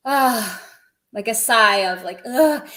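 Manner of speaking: ah and ugh as a sighing groan; a fed-up little sigh; resigned sigh. Shown as a demonstration. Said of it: "you have to say it with a certain intonation".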